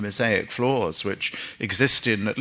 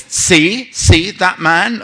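mock Jewish mother; 8 semitones higher, 7 dB louder, much slower than usual. Wife points out man in joke.

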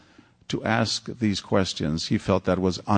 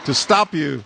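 higher, laughing through the words; 5 semitones higher, 3 dB louder, slower than usual. Real, not acted. Host joking back to the audience member, laughing. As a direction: chuckle it out.

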